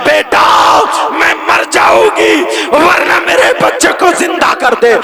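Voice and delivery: loud desperate begging; a mother begging the child to save her son; desperate plea. Acted. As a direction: beg for the child's life at full voice. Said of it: "وہ عورت کہنے لگی".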